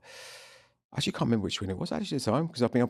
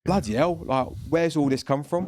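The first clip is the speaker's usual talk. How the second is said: mildly incredulous, pitched up at the start; retold astonishment; 4 semitones higher than usual. Promoter recalling the crowd breaking into Welsh songs, retold astonishment. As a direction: act out being taken aback, drawing it out. Acted reaction to sudden Welsh singing.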